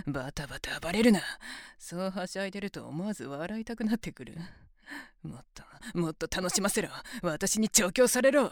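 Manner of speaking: fast, eager and rising to loud; excited domineering glee; gleeful taunting. Acted.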